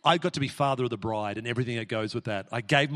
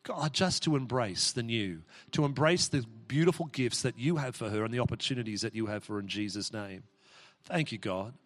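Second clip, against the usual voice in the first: prayer. Acted. Prays over Jeremy.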